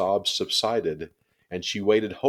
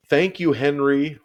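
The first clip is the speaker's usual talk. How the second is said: high, loud call after him; girl calling thanks to the boy; 8 semitones higher, 7 dB louder than usual. A narrator's reading. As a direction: call thanks across the street. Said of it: "Ramona called after him".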